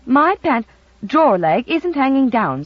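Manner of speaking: slow, offended protest; mild huffy denial; indignant. A narrator's reading. Jenny protests to Gammy, mildly indignant and slow. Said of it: "said Jenny indignantly".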